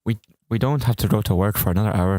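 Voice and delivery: amateur Irish imitation; unconvincing Irish accent; Irish accent attempt. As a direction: have a shaky-skilled go at Irish. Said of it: "I don't think I can do an Irish accent".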